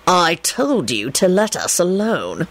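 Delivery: slow, tense hiss. Acted. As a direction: hiss it slowly in annoyance. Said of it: "Lupin hissed".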